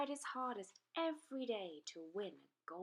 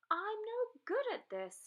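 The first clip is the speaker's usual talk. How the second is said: higher, louder despairing wail; higher louder mock despair; dragon's frustrated cry; 13 semitones higher, 5 dB louder than usual. A narrator's reading. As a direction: cry out in defeat. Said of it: "he cried".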